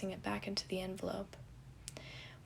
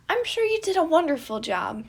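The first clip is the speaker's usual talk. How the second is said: reassuring; 9 semitones higher, 11 dB louder than usual. A narrator's reading. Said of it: "quickly reassured him".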